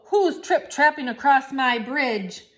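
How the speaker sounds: loud, booming troll; roaring troll. Acted. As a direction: roar it like a troll. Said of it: "A terrible roar".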